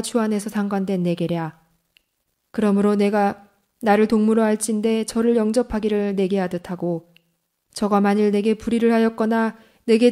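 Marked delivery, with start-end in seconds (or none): none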